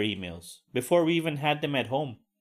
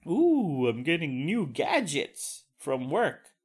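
mock excitement; slower than usual. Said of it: "I would be pretty excited".

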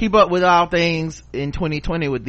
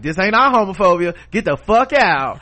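mock British bouncer; 6 semitones higher, 6 dB louder than usual. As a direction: kick them out in a put-on huff. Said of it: "they like".

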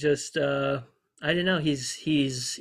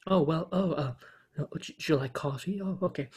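Jeff Goldblum impression; 5 dB quieter than usual. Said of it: "a Goldblum impression".

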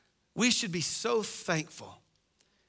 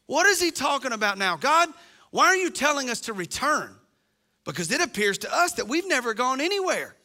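mock-innocent sarcastic complaint; 4 semitones higher than usual. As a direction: protest it as if wronged. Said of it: "that element of sarcasm".

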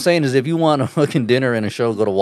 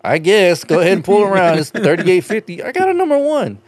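surly cashier; 5 semitones higher than usual. Retold or imitated. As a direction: bark it like a rude clerk. Acting drive-thru exchange.

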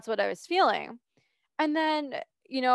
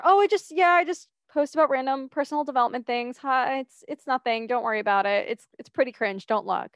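flustered brush-off; 3 semitones higher than usual. Retold or imitated. Downplaying her TikTok to a curious friend, mildly flustered. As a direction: wave it away awkwardly.

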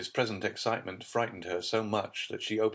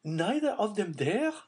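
higher, louder stricken question; horrified disbelief; 14 semitones higher, 3 dB louder than usual. A narrator's reading. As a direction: press the words home in horror. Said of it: "striving to impress herself with the meaning".

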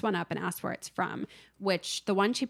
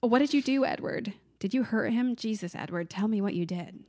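voicing Connie's plea; 2 semitones higher than usual. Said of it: "that's what she says".

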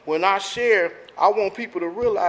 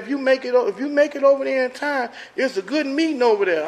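a hint of an old white lady on the phone, higher; lightly voiced old phone lady, unhurried; 5 semitones higher than usual. Recovering man retells the AA phone lady, lightly mimicking her voice. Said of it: "She sounded like she was an old white lady".

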